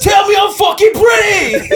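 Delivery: high, loud, laughing character shout; high squeaky character yell; voiced clit character. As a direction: demand it like a vain little creature.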